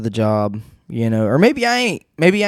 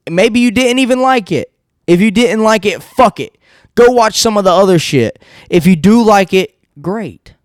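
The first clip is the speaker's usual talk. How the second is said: higher, teasing sing-song; mock teasing; 7 semitones higher than usual. Teasing viewers who didn't like the podcast.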